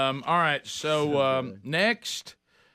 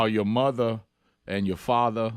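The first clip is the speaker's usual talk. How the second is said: put-on Southern gentleman accent; 5 semitones lower than usual. Co-host mimics a classic Southern gentleman, genteel Southern accent. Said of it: "Southern gentleman".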